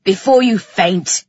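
low, loud gruff order; impatient male command; growling. A narrator's reading. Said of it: "he growled".

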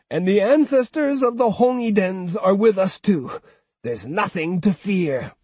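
put-on high, proud old woman; rally him like a stubborn grandmother. Old woman invoking the ancestors, high and proud.

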